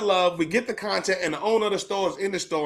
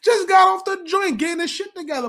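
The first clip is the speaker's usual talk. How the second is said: still laughing; 12 semitones higher, 4 dB louder than usual. Real, not acted. Still laughing while telling.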